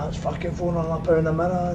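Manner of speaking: imitated anger. Depot manager angry about broken mirrors, imitated anger. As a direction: act out someone fuming over the cost. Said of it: "He was bailing, man".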